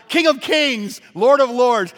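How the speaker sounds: loud, high proclamation of praise; crowning the king with a loud cry; exultant acclamation. Acted. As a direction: ring it out like a hymn of triumph.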